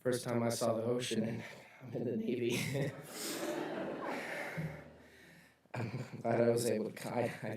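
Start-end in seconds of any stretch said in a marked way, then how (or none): 2.6-4.8 voiceless breathy laugh. Real, not acted. Speaker laughs after a memory.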